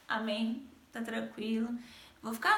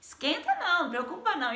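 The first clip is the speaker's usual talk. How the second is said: higher, amused driver reassuring her; laughing bus driver; 6 semitones higher than usual. Retold or imitated. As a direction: chuckle through it like the kind driver. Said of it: "O motorista começou a rir e falou".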